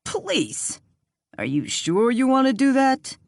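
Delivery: high, scoffing disbelief; incredulous. A narrator's reading. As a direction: scoff at the idea. Harvey doubting calling police.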